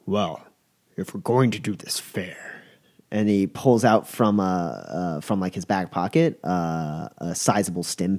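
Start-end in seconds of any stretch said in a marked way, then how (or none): 0.1-2.6 unvoiced, soft conspiratorial whisper. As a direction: lean in and breathe it. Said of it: "he's like".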